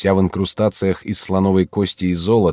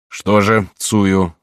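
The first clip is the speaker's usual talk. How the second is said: гневный упрёк; 4 dB louder, much slower than usual. Acted. Отец упрекает дочь.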